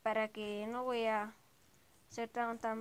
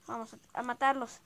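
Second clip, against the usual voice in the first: arenga de ataque; 5 dB louder than usual. Real, not acted. Arenga para atacar.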